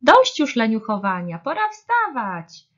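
loud, rising rousing call. A narrator's reading. Little bear rousing lazy friends, calling out loudly. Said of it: "wołał mały miś".

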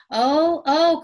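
high, loud, delighted oh; excited cry. A narrator's reading. Little Benny sees the cookies, crying out high and loud. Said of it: "cried Benny".

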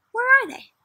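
high, loud astonished question; astonished read-aloud question; amazed. Shown as a demonstration. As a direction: gasp out the question in wonder. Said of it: "amazed question to child".

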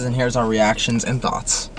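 flat robot voice, slow. Acted. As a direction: read it like a robot. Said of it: "stop talking like a robot".

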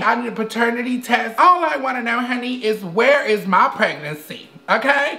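a hint of a feminine character voice, half-hearted; Mimi. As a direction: play a dramatic woman looking for love. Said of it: "my name is Mimi".

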